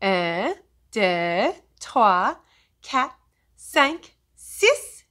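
building French count. Shown as a demonstration.

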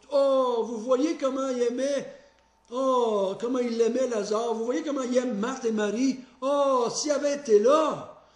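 exaggerated sighing onlookers; mock mourners. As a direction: ham up the pitying crowd. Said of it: "interpréteraient ce, ces pleurs un peu comme eux autres". (imitation exagérée des gens émus)

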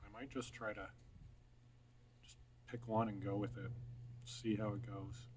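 talking around pipe stem; pipe in mouth. Real, not acted. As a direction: lips clenched on pipe. Seen 4: Pipe stem clenched between lips throughout labelled words; lowered by 8.2.

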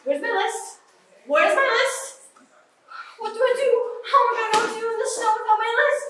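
high, fast, frantic questions; panicking. Real, not acted. Asking friends for her lost snow list, frantic. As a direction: rattle off the worries in a rush. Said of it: "I think she's freaking out".

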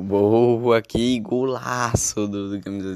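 stretched loud goal shout; drawn-out excited goal call; goal celebration. Real, not acted. Goal scored, loud commentary. (grito de gol empolgado)

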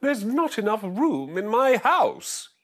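put-on high, slow grumbling old woman; grumbling old lady. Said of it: "grumble and grouse".

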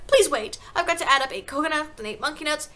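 high, pleading schoolboy; anxious, high-pitched protest; flustered cry. A narrator's reading. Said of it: "he cried".

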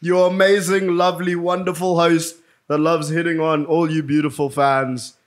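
slow hyped host intro; show host intro. Acted. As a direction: announce the hosts like a show. Hosts the podcast intro.

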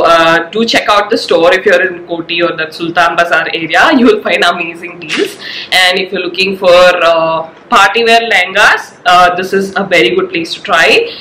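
stuffy nose from a cold; talking with a blocked nose; nasal voice. Real, not acted. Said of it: "Sorry about my nasal voice".

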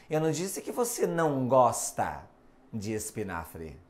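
"você" weighted, tail fading low; stress on você. Shown as a demonstration. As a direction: point the sentence at "você", trail the end off. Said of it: "observe alterando ênfase, tom".

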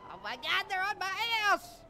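panicked. Real, not acted. Chased by police in game.

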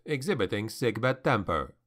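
usual speaking voice

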